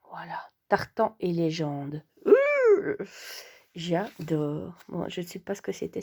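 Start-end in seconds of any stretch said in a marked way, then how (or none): 2.3-3.0 high little "ooh" of excitement; short high-pitched thrilled noise; excited squeal. Real, not acted. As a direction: let out a high, louder squeal of delight. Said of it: "petit bruit d'excitation à l'idée de découvrir ces magnifiques pages".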